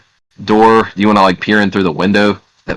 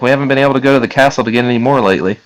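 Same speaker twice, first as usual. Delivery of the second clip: lightly voiced woman, higher and quick; woman's voice; 6 semitones higher, faster than usual. Woman explaining the lack of mead, lightly raised voice. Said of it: "a voice from a woman say".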